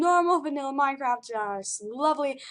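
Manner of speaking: put-on light British accent. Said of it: "I needed to be British".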